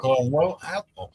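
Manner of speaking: tongue held, words blurred; holding own tongue. Shown as a demonstration. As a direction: talk with your tongue pinched. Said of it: "hold your tongue, and say caramel apple".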